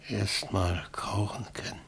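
barely voiced whisper. Injured Franz to himself, whispered. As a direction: breathe it out with no voice.

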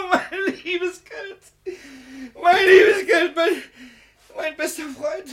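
high, wailing cry; sobbing lament. Acted. Miser sobbing over his stolen money as his friend. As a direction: weep for the lost money.

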